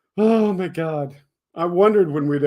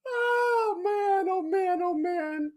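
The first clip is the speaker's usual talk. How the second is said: high, squealing laughter through the words; helpless high-pitched giggling fit; laughing hard. Real, not acted. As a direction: crack up mid-sentence. Reading chat, bursts out laughing.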